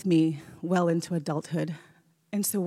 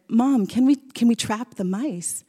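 put-on eager child's plea, pitched up; excited kids begging; 4 semitones higher, 5 dB louder than usual. Boys begging mom to trap mice, eager. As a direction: beg mom like an excited kid.

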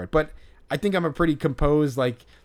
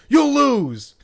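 much higher and louder, breaking into laughter; laughing boast; 12 semitones higher, 8 dB louder than usual. Real, not acted. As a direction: crow it while cracking up. Laughing boast about player knowledge.

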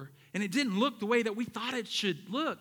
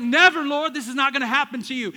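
Peter's protest; 6 semitones higher, 11 dB louder than usual. Retold or imitated. Peter defending Jesus at arrest.

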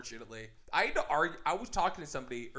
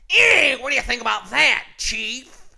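loud, high radio announcer; radio guy voice; 8 semitones higher, 13 dB louder than usual. Acted. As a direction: boom it out like a DJ. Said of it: "no more radio voice".

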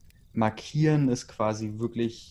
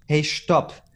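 higher, louder call to stop; shouting stop; 6 semitones higher, 4 dB louder than usual. A narrator's reading. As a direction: cut the fight off sharply. Stopping a fight.

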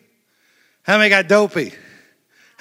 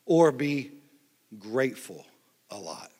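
soft and low; 5 semitones lower, 7 dB quieter than usual. Shown as a demonstration. Preacher contrasts grumbling with a hushed grateful. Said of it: "Number two".

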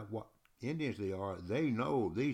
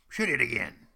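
louder shouted cheer; excited shout; 9 dB louder than usual. Retold or imitated. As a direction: yell it like a thrilled warrior. Hurons shouting for more.

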